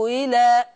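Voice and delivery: إلى with a softened hamza, no hard catch; eased hamza. Shown as a demonstration. Teacher demonstrating the eased hamza of Warsh. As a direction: ease the start of إلى. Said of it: "يزيها".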